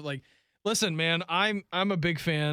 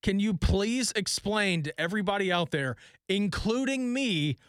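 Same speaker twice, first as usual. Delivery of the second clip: slow, emphatic, slightly exasperated question; higher, deliberate retold appeal; mock pleading; 4 semitones higher, slower than usual. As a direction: spell out a plea, leaning on each phrase. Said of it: "we were asking him the questions like".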